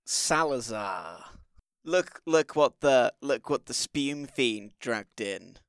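slow, measured accusation; in-character confrontation. Acted. Sister V confronting Salazar over heretical allies, slow and deliberate. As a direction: draw the words out with restrained disdain.

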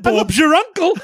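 high, lilting British maid; fake British accent. Maid lecturing the princess on marriage, fake British accent. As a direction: ham up a British servant's accent. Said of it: "She's doing a fake British accent".

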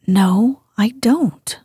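a hint of sulky muttered denial. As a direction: grumble it like a sulking boy. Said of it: "almost sulkily".

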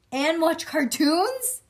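loud, high, drawn-out exclamation; excited kid voice. Acted. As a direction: exclaim it slowly with rising delight. Reading Junie's line excitedly.

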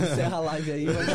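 laughing words. Real, not acted. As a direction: talk while laughing hard. Laughing while speaking.

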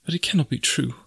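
high, insistent denial; distressed young woman. A narrator's reading. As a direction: talk yourself out of believing it, pitched high. Jane refuses to believe the accusation.

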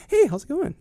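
very high put-on cheery greeting; fake friendly switch. Greeting someone right after a family fight, fake friendly voice. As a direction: flip into a high, phony hello. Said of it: "someone else goes like".

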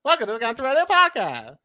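high, loud jokey Canadian welcome; mock Canadian accent. Shown as a demonstration. Host welcoming listeners in a hammed-up Canadian accent. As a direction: greet them like a South Park Canadian. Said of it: "you're like the South Park Canadian".

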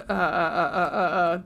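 halting uhs as tears come; choking up. Real, not acted. Host naming the charity she supports, choking up. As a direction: stumble and choke on the words. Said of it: "I'm trying not to cry".

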